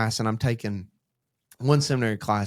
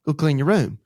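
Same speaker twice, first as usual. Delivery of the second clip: louder and higher, a firm dad order; stern command; 4 semitones higher, 6 dB louder than usual. Retold or imitated. Dad repeating the order to his daughter, louder and higher. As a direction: bark it at the five-year-old, then repeat it firmer. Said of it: "and I'm going".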